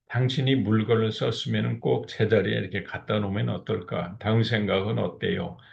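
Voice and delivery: soft gentle request. Shown as a demonstration. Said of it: "이 얘기를 갖다 하면은".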